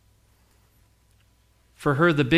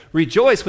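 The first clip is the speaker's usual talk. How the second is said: Rejoice said louder with a lift; exclamation point; 5 semitones higher, 8 dB louder than usual. Shown as a demonstration. Preacher shows Paul's emphasis, "Rejoice" punched loud. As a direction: give "Rejoice" a shouted exclamation. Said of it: "with an exclamation point".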